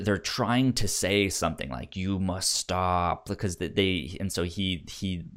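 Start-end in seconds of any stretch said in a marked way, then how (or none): 2.0-3.3 lightly voiced zombie, slow and drawn out; slow zombie speech. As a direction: spell it out slowly like a half-awake zombie. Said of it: "a really slow speech".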